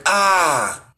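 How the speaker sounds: hammed-up cry of pain; mock pained curse. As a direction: wince out a fake curse. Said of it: "and I'm like".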